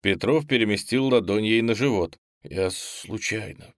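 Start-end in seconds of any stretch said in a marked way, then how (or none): 2.4-3.7 softer, slow embarrassed murmur; sheepish half-whisper of an excuse. Acted. Boy to the girl on top of him, sheepish soft murmur. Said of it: "прошептал парень".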